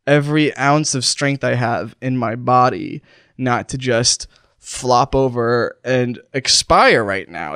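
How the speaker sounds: slow, effortful words with breaks; straining to continue. Pretend. Dying host fighting not to flop over, straining. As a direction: push each phrase out with your last strength. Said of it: "it's taking literally".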